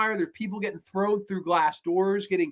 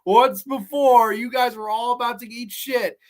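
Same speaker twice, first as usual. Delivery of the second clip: amused exasperated taunt; mocking the characters; 5 semitones higher than usual. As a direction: jeer at them like you saw it coming. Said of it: "you're just going".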